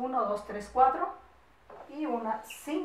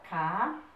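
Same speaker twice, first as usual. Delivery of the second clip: CALABACÍN with long pauses between ca, la, ba, cín; CALABACÍN in widely spaced syllables; syllables while writing; 3 semitones lower than usual. Shown as a demonstration. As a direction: spell out CALABACÍN one syllable at a time. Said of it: "aquí empiezo a escribir".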